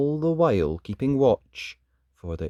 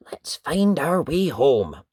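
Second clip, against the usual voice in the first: slow hushed whisper to Toto; 2 semitones higher, 3 dB louder than usual. Acted. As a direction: secret whisper setting off home. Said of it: "unvoiced whisper heard".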